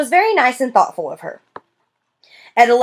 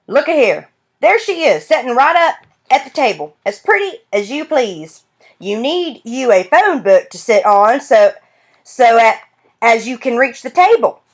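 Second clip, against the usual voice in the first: put-on old grandfather teasing; 3 semitones higher than usual. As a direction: tease her like a fond old grandpa.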